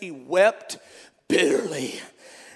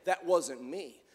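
low casual denial; 3 semitones lower, slower than usual. Retold or imitated. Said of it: "He was, he was not just saying".

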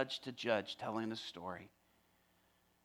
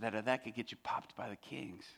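tender warning; 2 semitones lower, 6 dB quieter than usual. Retold or imitated. Gently warning inmate of danger.

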